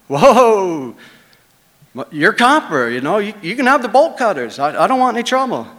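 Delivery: high, frantic, rushing at the end; panicked pleading. Retold or imitated. Jeff begging the thugs not to hurt him, panicked and high. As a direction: beg them to back off, voice shooting up.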